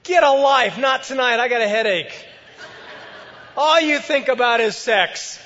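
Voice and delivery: high, loud scolding outburst; exasperated wife. Acted. Wife scolding her late husband, high and loud. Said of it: "And she's saying".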